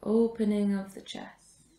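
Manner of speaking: measured meditation guidance with long pauses; guided meditation. Real, not acted. Yoga teacher guides a class resting in supported fish, guided meditation. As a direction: guide the breath, leaving space after each phrase.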